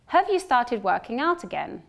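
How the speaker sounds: unstressed have in the question; weak have in question. Shown as a demonstration. Teacher models the question with weak "Have". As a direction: say "Have" reduced to /həv/. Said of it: "I'll say the sentences twice".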